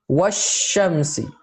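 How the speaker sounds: washamsi with the lam dropped into the sh; lam skipped in washamsi. Shown as a demonstration. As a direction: say washamsi slowly, no l sound. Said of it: "the lam is completely skipped".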